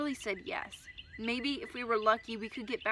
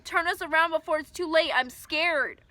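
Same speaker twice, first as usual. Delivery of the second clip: loud, higher frightened plea; scared shouting; 6 semitones higher, 7 dB louder than usual. Acted. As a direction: beg loudly, frightened.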